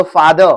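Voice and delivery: फादर starting on a true "f"; careful teaching "f" in फादर; clear F sound. Shown as a demonstration. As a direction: model फादर as "faa-da", lip on teeth for f. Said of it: "एफ बोलना सिखाऊंगा आपको".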